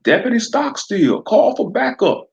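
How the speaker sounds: southern sheriff daring Fred to use his eye blaster; southern accent. Acted. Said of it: "Sheriff McClure directed".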